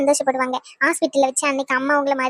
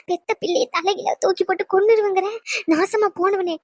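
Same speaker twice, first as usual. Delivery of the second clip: horrified cursing; 5 semitones higher than usual. Acted. Mother horrified by threat to child.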